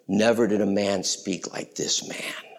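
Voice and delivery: hushed, breathless whisper; a whispered line of astonishment; awed whisper. Acted. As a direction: whisper it in wonder. Crowd's awed words retold.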